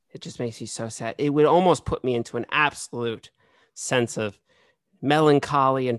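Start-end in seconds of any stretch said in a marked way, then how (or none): none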